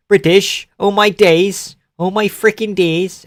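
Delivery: high-pitched botched posh British; posh British accent. Pretend. Streamer failing at the British catchphrase, mock posh British. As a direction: badly fake a posh British exclamation. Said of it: "in a posh Brit".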